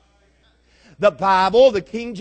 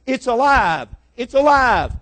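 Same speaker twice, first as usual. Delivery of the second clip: higher, mounting shouts, each a separate cry; screaming street showman; 5 semitones higher, 5 dB louder than usual. Retold or imitated. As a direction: shout it to stop traffic, building to the last. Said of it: "He's screaming".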